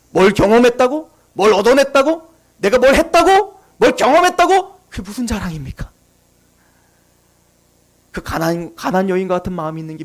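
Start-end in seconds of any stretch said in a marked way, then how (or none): 0.1-4.8 rhetorical challenge. Acted. Preacher challenging boasts before God, mounting incredulity. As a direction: climb step by step, ending each question on a rise.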